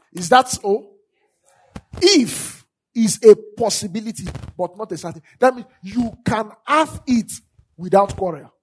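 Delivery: loud, insistent scripture teaching; forceful pulpit delivery with punched key words; emphatic preaching. Real, not acted. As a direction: drive the point home to the congregation. Preaches on the word if.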